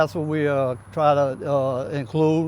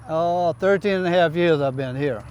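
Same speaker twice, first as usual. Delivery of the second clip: Cajun accent. Real, not acted. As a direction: talk like a Louisiana Cajun local. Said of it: "Cajun co-, uh, accent you got going on there".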